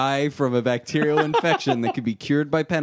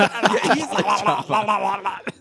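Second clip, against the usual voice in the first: laughing; 6 semitones higher, much slower than usual. Real, not acted. Laughing at comical scene.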